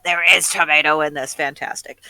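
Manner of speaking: lightly voiced goblin; a hint of goblin relishing the food; offhand little goblin aside. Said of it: "it's just goblin voice".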